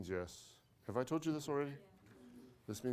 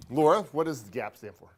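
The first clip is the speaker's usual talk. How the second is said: calling out; 9 dB louder than usual. Real, not acted. Teacher calls on a student.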